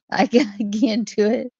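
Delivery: trying to talk through giggles; laughing. Real, not acted. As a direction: break into laughter as you give up. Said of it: "about to start laughing".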